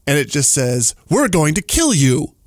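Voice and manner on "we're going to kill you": slow, menacing alien threat; creepy alien voice. Retold or imitated. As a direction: drag it out like a sinister alien. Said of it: "it says in its creepy alien voice".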